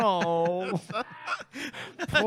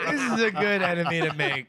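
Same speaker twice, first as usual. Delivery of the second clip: laughing; 4 semitones lower, faster than usual. Real, not acted. Repeat while laughing.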